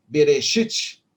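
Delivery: slow "berechite" with a small E after the B; light E demo. Shown as a demonstration. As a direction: sound a faint short E in the first syllable of "berechite". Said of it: "ele tem um sonzinho de E".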